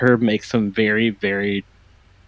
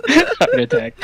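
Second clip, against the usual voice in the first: squeaky, much higher mock gasp; mock shriek. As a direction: yelp it like you're clutching your chest. Mock reaction to the shout.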